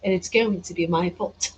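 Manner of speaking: put-on British accent. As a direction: toy with a mock-British lilt. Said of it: "put on a British accent".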